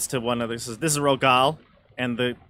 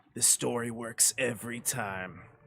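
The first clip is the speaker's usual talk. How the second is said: muttered under breath, much quieter; 11 dB quieter than usual. Game master voices the impostor speaking to the others: muttered under his breath. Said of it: "under his breath to the others".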